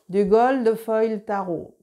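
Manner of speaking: "Gold Foil Tarot" said slowly with a strong French accent; slow, carefully spelled-out English name in a thick French accent; Frenchy accent. Real, not acted. Naming her gold tarot deck for viewers, slow French-accented English. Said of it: "vous pardonnerez mon accent très Frenchy".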